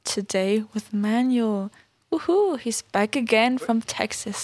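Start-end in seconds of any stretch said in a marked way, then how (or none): 2.1-4.4 excited welcome with a lifted woohoo; excited cheer. Real, not acted. Host welcomes Manuel back from Texas, excited. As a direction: greet a returning guest with a little cheer. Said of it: "authentically excited".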